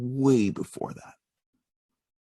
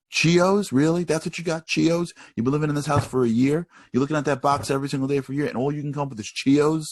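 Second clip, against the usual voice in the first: high, loud incredulous scolding; hammed-up mother's outraged questions, building into a tirade; mock exasperated mom; 4 semitones higher, 4 dB louder than usual. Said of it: "mom's not ... be like".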